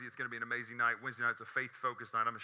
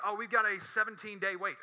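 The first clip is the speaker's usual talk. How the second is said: mock receptionist; 8 semitones higher, 4 dB louder than usual. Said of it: "It's like".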